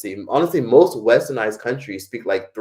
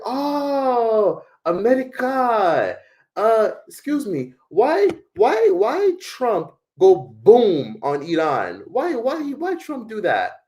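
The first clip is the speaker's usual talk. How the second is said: much higher, slow, broken English of an excited foreign taxi driver; foreign driver's accent; 13 semitones higher, 3 dB louder, much slower than usual. Retold or imitated. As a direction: drag out each "why" high and slow in a put-on foreign accent. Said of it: "He's like".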